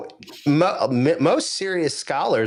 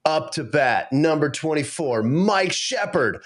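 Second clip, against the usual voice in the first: a hint of a ballpark announcer stretching the name slowly; announcer call; 3 semitones higher than usual. Pastor imitating the Little League announcer, lightly announcing. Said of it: "There's an announcer".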